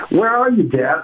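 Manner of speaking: lightly voiced daughter, impatient; impatient teen daughter.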